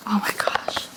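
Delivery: hushed, awed oh my gosh; awed whisper. Real, not acted. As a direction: whisper it in wonder. Sees a beautiful product.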